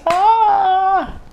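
high, loud drawn-out "aah"; seruan heboh. Retold or imitated. Heboh menceritakan tisu yang ketahuan. (teriakan "aah" tinggi dan nyaring)

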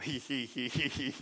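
soft mock "he he he" chuckle; a quiet, smug little chuckle, lightly done; imitated chuckle. Son imitating his dad's smug chuckle, soft mock chuckle.

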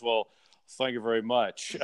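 a hint of a fifties rock crooner; a rock singer impression. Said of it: "or I started talking like the rock singer".

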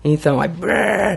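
shivery brrr. Retold or imitated. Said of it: "esse brrr no peito".

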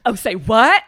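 put-on loud valley girl squeal; gushing valley girl voice.

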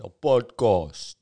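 podcast said slowly as "pɔdkɔs", flat Cape Town vowels; flat Cape Town accent. Shown as a demonstration. Comic demonstrating the flat Cape Town podcast, slow. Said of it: "a flatness to our accent".

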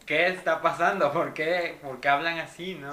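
shocked disbelief. Retold or imitated. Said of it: "Y yo dije".

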